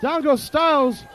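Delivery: play-by-play. Real, not acted. Live wrestling play-by-play.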